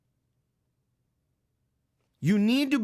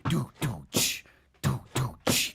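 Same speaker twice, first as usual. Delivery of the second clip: imitated beat; 8 semitones lower, 3 dB quieter than usual. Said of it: "you're hearing that noise".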